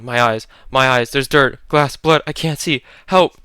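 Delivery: blinded and frantic, losing control; disoriented panic. Acted. Natalie, blinded by glass, panicking to her friends. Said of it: "Panic, disoriented".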